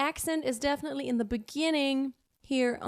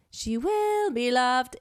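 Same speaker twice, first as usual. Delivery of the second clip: audible vocal break; 3 dB louder, slower than usual. Shown as a demonstration. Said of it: "goes over your break".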